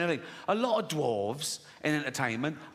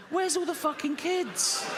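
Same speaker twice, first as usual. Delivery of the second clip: slow, much higher shouted whine; mock shout; 12 semitones higher than usual. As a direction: bellow it out slowly, hammed-up and desperate. Pedos complaining in a joke.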